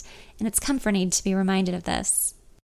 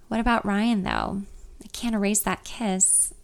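sad. Acted. Friend asked about Ryan, answering sadly. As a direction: let the worry drag the voice down. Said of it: "I say sadly".

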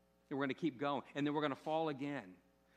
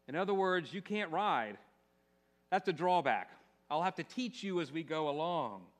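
talking horse, matter-of-fact; 2 semitones higher, 4 dB louder than usual. Acted. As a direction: read the horse's lines firmly, pitched slightly up. Reads the horse's story lines.

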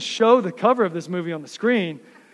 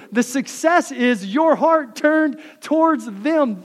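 higher and louder, pressing the point; fired up preaching; 5 semitones higher, 4 dB louder than usual. Real, not acted. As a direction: preach it with building fire. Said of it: "Sorry, I'm getting fired up".

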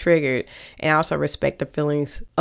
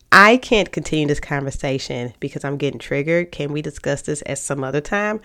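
calm and inviting. Shown as a demonstration. Speaking calmly to a partner to pause the talk, inviting. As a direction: invite them to talk, gently. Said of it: "one is calm, relaxing, you know, it's inviting".

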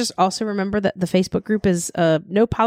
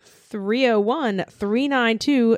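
slow number read; 3 semitones higher, slower than usual. Pretend. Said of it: "That number again?".

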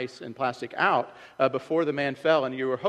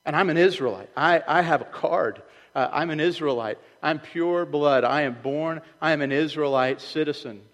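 proud loud boast; 3 semitones higher, 6 dB louder than usual. Retold or imitated. Proud claimant voiced loudly.

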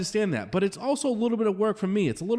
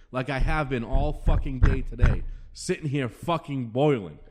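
simmering real anger, voice kept low; boiling inside; 4 semitones lower than usual. Real, not acted. Host dreading an empty draft, boiling inside. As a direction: bite down on the anger, slowing at the end. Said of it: "I'm gonna be fucking boiling".

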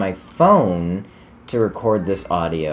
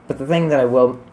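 interrupted by a hiccup; words cut off by hiccups; faster than usual. Real, not acted. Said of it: "these hiccups".

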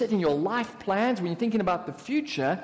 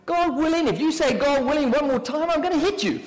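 higher and louder, hammed-up irritation; mock exasperation; 6 semitones higher, 4 dB louder than usual. Friend fed up with hearing God willing, mock annoyed. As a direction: threaten in playful fed-up exasperation.

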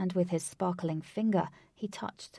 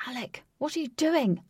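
higher-pitched baffled question; puzzled; 6 semitones higher, 4 dB louder than usual. A narrator's reading. Wraith questioning Alec's fishing cast, puzzled. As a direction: ask it in bewilderment, pitch lifted. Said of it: "said a puzzled Wraith".

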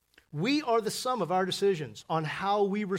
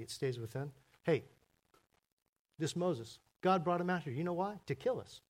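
lightly voiced complainer whispering to Joshua; grumbling gossip. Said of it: "it sounds like this".

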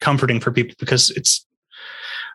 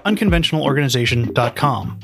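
podcast outro; 3 semitones higher than usual. Acted. Recorded scripted outro to listeners.

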